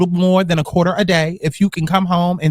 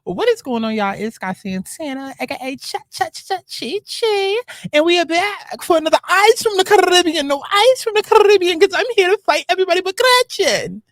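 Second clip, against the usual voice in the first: hyped intro; 13 semitones higher than usual. Real, not acted. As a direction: hype the crowd like a show host. Catchphrase vlog intro.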